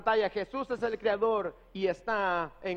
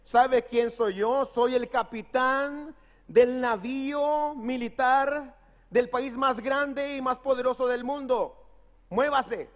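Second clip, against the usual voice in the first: a touch of annoyed authority, slow at first; mildly irritated captain pulling rank; upset captain; 2 semitones higher, slower than usual. Retold or imitated. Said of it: "él molesto le dice".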